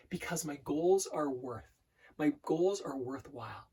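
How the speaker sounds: slow, deliberate mantra with pauses; broken into sections. Shown as a demonstration. Coach repeating an affirmation in sections, slow and deliberate. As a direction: dwell on each phrase, drawing it out. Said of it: "repeating in different sections".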